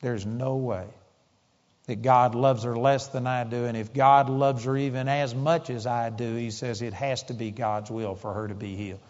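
tearful. Retold or imitated. Father conceding to the preacher while crying, soft and tearful. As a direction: say it softly as tears come. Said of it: "started crying".

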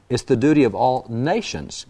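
"duty" marked out as the key word; stress on "duty". Real, not acted. Host reading Washington's proclamation to the audience, stressing "duty". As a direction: lean firmly on the word "duty". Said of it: "I'm gonna emphasize that word duty".

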